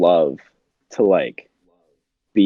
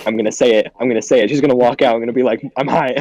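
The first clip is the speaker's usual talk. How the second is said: hammed-up rising panic, higher and louder; mock panic; 6 semitones higher, 5 dB louder, faster than usual. High teen dreading mom walking out, mock panic. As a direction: spiral into a giddy mock panic.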